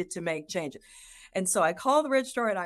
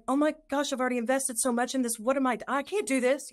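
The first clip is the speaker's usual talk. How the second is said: higher and fast, overwhelmed; panicked mother; 6 semitones higher, faster than usual. Retold or imitated. Voicing mothers in breastfeeding crisis, higher and fast. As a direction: rush it out like someone trapped. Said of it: "they're like".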